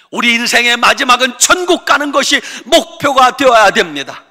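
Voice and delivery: loud, high preaching at full force; impassioned sermon climax; fiery preaching. Acted. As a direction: preach it hard to the congregation.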